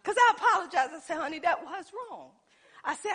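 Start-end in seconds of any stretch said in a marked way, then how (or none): 1.2-2.3 laughing apology. Retold or imitated. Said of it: "we laughed about it".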